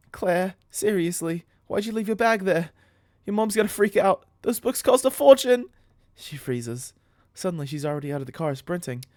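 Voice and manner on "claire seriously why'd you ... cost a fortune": loud, high, building telling-off; scold, rising to a shout; exasperated scolding. Acted. Jamie scolds Claire over costly books, exasperated scolding. Scolding friend about lost bag.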